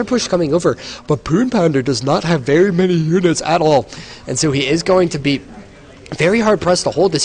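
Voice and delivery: rising excitement in the call; excited. Real, not acted. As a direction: call the push with growing excitement. Push arrives, caster gets excited.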